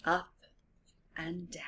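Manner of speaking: whispered, fading away. A narrator's reading. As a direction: let the swing die to a whisper. Story swing rhythm.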